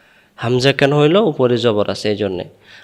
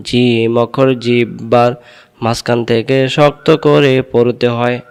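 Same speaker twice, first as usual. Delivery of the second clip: slow recitation. Shown as a demonstration. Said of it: "আমি দুইবার বলি".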